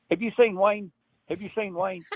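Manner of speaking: high, rushed mock eagerness; excited questions. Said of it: "That's, that's Jim Bagley".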